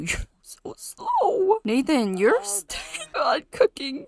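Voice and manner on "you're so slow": laughing tease. Real, not acted. Teasing a slow Sim.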